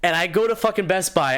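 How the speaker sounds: normal talking voice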